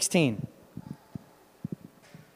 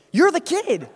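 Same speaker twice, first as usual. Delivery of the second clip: higher and louder, laughing as he says it; a delighted laugh of recognition; a beaming, laughing repeat; 10 semitones higher, 5 dB louder than usual. Retold or imitated. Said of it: "and he goes".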